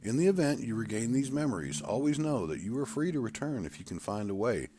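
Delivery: a doctor soothing a nervous patient; calm doctor. Acted. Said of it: "I'm Doctor Davidson".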